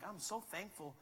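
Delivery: grateful musing. Pretend. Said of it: "walking around all the time just being like".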